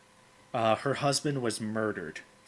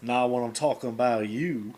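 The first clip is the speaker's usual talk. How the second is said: imitated smooth charmer; lightly voiced suave comeback; Gambit; 4 dB louder than usual. Gambit answering Rogue in their argument, imitated smooth talk. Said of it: "That is the smoothest dude".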